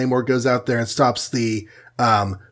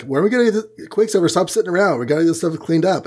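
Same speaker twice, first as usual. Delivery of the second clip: higher-pitched, hurried mock scolding; impatient nagging; 5 semitones higher, much faster than usual. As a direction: act out a teammate nagging a slacker. Voicing Hawkeye nagging Quicksilver.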